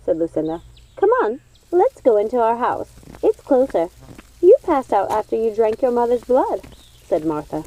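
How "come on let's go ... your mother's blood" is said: brisk, higher witch voice; a witch hurrying her friend inside; odd sister voice. Acted. Odd sister Martha speaks.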